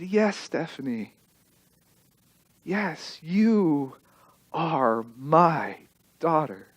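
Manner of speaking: very soft, low and tearful mother; a mother in tears answering her adopted daughter; tearful, tender. Retold or imitated. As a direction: tell her gently through tears. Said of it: "with tears rolling down her cheeks".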